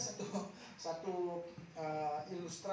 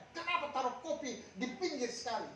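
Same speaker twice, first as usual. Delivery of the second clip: scolding father; 6 semitones higher than usual. Retold or imitated. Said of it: "dia memarahi anaknya".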